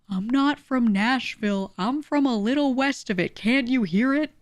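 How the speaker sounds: indignant Southern local, hammed up; mock Tennessee accent. Someone insisting they aren't from Nashville, mock Southern indignation.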